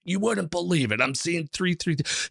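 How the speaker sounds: put-on Boston mayor type in a mild Boston accent. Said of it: "Massachusetts Boston accent".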